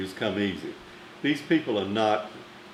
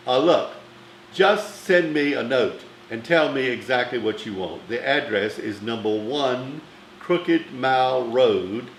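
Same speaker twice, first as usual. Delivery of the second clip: a louder, brisk dismissive diva voice; imitating Bette Davis; 3 dB louder than usual. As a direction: brush him off like a busy star.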